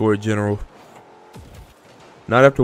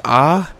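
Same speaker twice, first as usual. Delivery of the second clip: short ah sound; 4 semitones higher than usual. Shown as a demonstration. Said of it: "Saying, ... that's not a moan".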